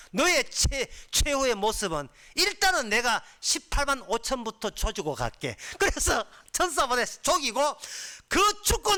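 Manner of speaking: high, loud sermon delivery; impassioned preaching. Acted. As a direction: preach at full force in surging bursts. Preaches at full force.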